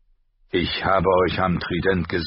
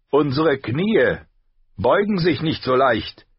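slow, higher proud knight; 8 semitones higher, 5 dB louder than usual. A narrator's reading. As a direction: refuse to kneel, slowly and proud. (stolzer Ritter, langsam)

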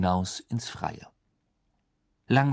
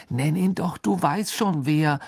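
higher, irritated cut-in; gruff interjection; 6 semitones higher, 4 dB louder than usual. A narrator's reading. Ron objects to Harry naming Voldemort, gruffly. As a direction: cut in testily, pitch raised. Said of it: "warf Ron unwirsch ein".

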